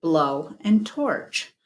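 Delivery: slow, each part of "Blow and torch" set apart; "Blow and torch" stretched out word by word; slow sounding out. Shown as a demonstration. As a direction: spell out the compound slowly. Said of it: "It's actually a compound word".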